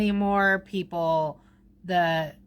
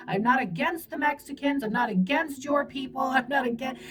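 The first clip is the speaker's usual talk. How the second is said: imitating Trump; 2 semitones higher than usual. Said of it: "I feel Trump being like".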